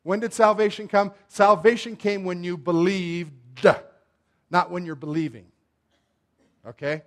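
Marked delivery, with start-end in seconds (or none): 2.2-3.3 "believed" with its final d popped out as an extra "duh"; past-tense ending exaggerated. Shown as a demonstration. Preacher contrasting believed with believing, final d of "believed" over-pronounced. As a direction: lean hard on the last d of "believed".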